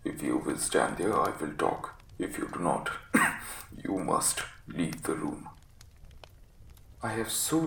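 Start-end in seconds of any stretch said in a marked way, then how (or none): 0.0-2.9 low, croaky sick man's threat; croaking ultimatum. Acted. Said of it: "with a look of furious anger". 2.9-3.8 acted hacking cough of an invalid; sickly cough. Sick man coughs. 3.8-5.5 low, croaky sick man's threat; croaking ultimatum. Acted. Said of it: "was croaking".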